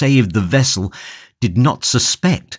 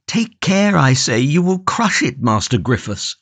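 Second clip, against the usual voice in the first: anxious plea; 5 semitones higher than usual. Acted. Prisoner pleads for his jug.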